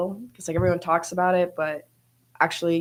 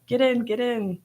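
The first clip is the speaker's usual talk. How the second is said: mild mock yell, pitched up; imitated dad's yell; 6 semitones higher, slower than usual. Golfer quoting her dad cheering on her shot, mild mock yell. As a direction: imitate a yelling dad without real volume. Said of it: "my dad's always yelling".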